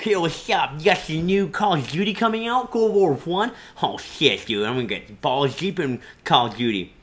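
lightly voiced excited gamer nerd. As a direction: play the eager GameStop nerd. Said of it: "You do that way too well".

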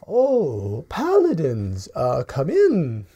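put-on slow, gentle old shopkeeper lady; a welcoming old woman, slowly. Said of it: "old human lady".

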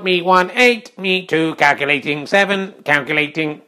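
lightly mechanical scorekeeper; tally the score like a computer thinking; stiff, word-by-word robot announcement. Acted. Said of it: "let's go to the robot voice".

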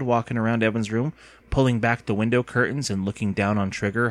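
ordinary delivery, nothing marked

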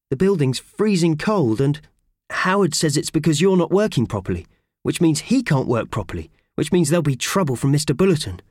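a hint of an eager young helper; lightly voiced earnest mouse. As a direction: Purvis explaining to the boiler. Purvis explaining the problem.

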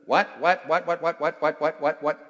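loud, rapid string of "what" as quacks; punchy duck imitation. Shown as a demonstration. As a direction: quack the word "what" over and over. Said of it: "That's a duck".

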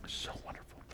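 a breathless whisper of awe. Real, not acted. Father whispering about how precious his children are, in a hush. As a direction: whisper it to yourself, full of wonder.

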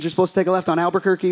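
fast cartoon line; Bugs Bunny quote. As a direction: toss off the cartoon quote quickly. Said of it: "those old Warner Brothers movie or show".

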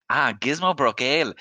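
serving girl in a hammed-up English accent; waitress Millie in a bad English accent. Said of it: "That accent was great".

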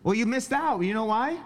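high sing-song voice for the pet. Real, not acted. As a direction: coo at the dog in a high voice. Talking to his dog in baby voice.

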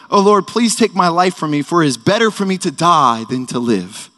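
hammed-up whiny plea to the Lord; a mild mock melodramatic VSCO-girl wail; mock VSCO girl drama. Pastor mocks Jonah as a dramatic VSCO girl, hammed-up whiny plea. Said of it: "super dramatic".

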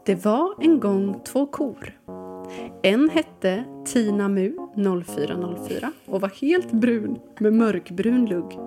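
storytelling read-aloud over music; story narration. Acted. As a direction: read it like a children's tale.

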